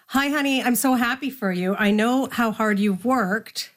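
a hint of a proud mother, slowing at the end; mom's words again. Hazel retells her mom's call, lightly tender. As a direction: let the pride show gently. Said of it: "so she says".

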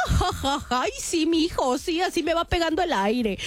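lightly voiced chuckling mother; mom playing along. Daughter retelling mom's reply to son-in-law, mock chuckling. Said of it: "Y mi mamá".

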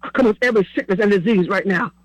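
rhythmic preaching cadence, pushing each phrase; preaching prayer. Acted. Pastor praying over listeners on the line, in preaching cadence. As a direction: pray over them like a pastor on fire.

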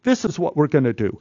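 hammed-up director rejecting a pitch; director's verdict. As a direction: shoot the idea down with a laugh. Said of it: "He goes".

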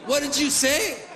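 high, challenging question; puffed-up confrontational comeback; affronted drake. Acted. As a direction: demand it like an offended duck. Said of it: "he goes".

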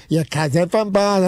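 slow, mocking Boston accent; lightly done Boston accent. Retelling the bathroom joke in a Boston accent. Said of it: "making fun of, like, the, the Boston accent".

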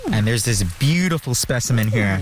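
talking around a pen held in the teeth; pen in mouth. Real, not acted. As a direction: speak with a pen clamped in your mouth. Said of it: "I say with my pen in my mouth".

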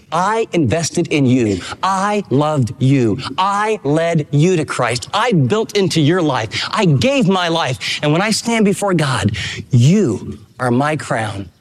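each line a deliberate confession of love; sincere, slow vow. Acted. Paul's heartfelt words to church.

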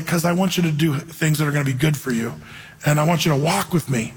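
loving. Retold or imitated. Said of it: "God would lovingly say".

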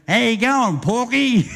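lightly voiced drunk larrikin teasing; cheeky drunk taunt. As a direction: rib the cop with a cheeky drunken grin. Drunk mate cheekily taunting cop.

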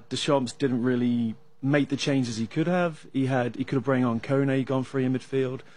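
ordinary talk, nothing marked

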